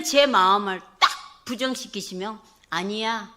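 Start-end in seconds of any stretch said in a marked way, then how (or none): 2.7-3.3 God's answer. Retold or imitated. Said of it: "이렇게 말씀하시니까".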